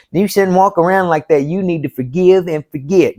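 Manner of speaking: high mocking voice of the advisers; high, mocking imitation of busybodies; mocking the preachers. Voicing people who preach forgiveness.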